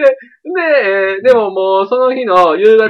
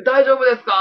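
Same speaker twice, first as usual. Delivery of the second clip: 気遣う声; 8 semitones higher than usual. Retold or imitated. スキー場で女の子を気遣う.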